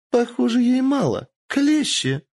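high, loud gloating voice; cruel lord. Acted. Lord calling for the tongs again, gloating and loud.

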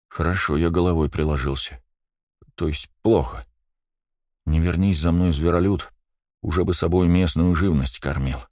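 ordinary delivery, nothing marked

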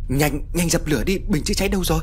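high-pitched urgent yell to put out the fire; urgent shouting. A narrator's reading. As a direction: shout orders over the blaze. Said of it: "Tiếng của bác Khôi quát tháo". (quát tháo gấp gáp, giọng cao)

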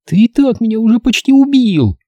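high, cross retort; angry retort. A narrator's reading. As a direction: snap back at him. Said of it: "сердито возразила она".

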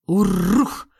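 rolling beastly bark rising at the end; growling monster bark; creature bark. Acted. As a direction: bark it back like a hairy brute. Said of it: "рявкнул Урх".

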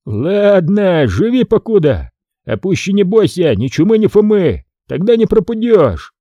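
a touch of menace shaking him by the sash; lightly voiced angry Foma. A narrator's reading. Foma teases.

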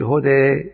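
هدى with the final alif tilting toward ee; هدى with imala; imala demo. Shown as a demonstration. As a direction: say هدى with the end bent toward ya. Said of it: "الهدى أقول".

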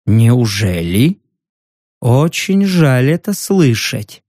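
low, slow, menacing put-on voice; a villain masking his real voice, slow and low; disguised voice. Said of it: "старый трюк с изменением голоса".

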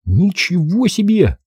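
slow, high wonder; stunned by the sight; awed. A narrator's reading. Boy awed by armour.

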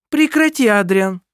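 loud, very high sharp stop; sharp command. Acted. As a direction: cut him off sharply. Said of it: "резко оборвала его мать".

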